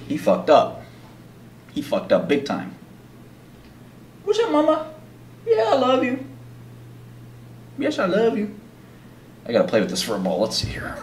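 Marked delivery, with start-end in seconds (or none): 4.2-8.5 high, soft doting coo; affectionate pet talk. Real, not acted. Affection to the cat.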